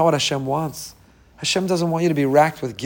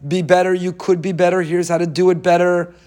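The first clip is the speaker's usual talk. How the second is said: lightly voiced encouraging coach, a bit higher; 4 semitones higher, 3 dB louder than usual. Rabbi voicing the inner coach, mild encouraging coach. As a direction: push gently like a trainer urging you on. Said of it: "That's a coaching voice".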